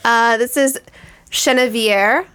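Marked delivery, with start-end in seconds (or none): 1.3-2.3 Chenevier said in French, shen-uh-vee-AIR; careful pronunciation. Shown as a demonstration. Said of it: "is how you pronounce it".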